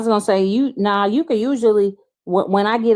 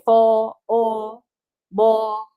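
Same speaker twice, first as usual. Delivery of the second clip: New Orleans words; much slower than usual. Shown as a demonstration. Showing how New Orleans folks say fall, a light New Orleans accent. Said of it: "They say it like".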